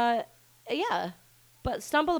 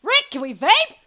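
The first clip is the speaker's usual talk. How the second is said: high, loud mock holler; imitated yell; 9 semitones higher, 9 dB louder than usual. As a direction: holler it like a quoted call across the house. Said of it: "also yelling".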